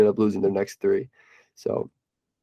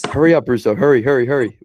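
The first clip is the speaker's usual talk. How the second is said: louder rushed urging; urgent; 5 dB louder than usual. Real, not acted. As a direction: hurry him along urgently. Battery dying urgency.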